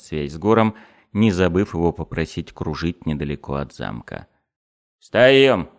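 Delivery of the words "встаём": loud, high barked command; sudden raised-voice order. A narrator's reading. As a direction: bark it out to get them on their feet. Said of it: "рявкнул уродец".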